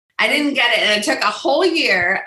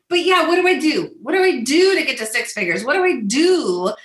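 exasperated pleading; 2 semitones higher than usual. Retold or imitated. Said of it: "I'm like".

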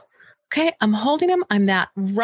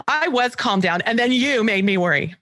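put-on whiny child; 2 semitones higher than usual. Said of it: "That was one of my favorites".

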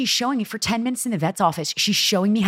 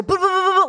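high, loud playful boo sounds; sniper noises; 14 semitones higher, 4 dB louder, faster than usual. Shown as a demonstration. Owner showing how she sneaks eye drops, playful high boos. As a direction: fire off little high boos. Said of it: "Like, I just go".

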